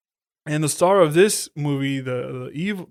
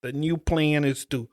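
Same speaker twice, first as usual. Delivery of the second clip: lightly imitated bad New York accent; mock a cheesy New York accent, lightly. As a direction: do a hint of a fake New York tough-guy accent. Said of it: "how you do that stupid ass".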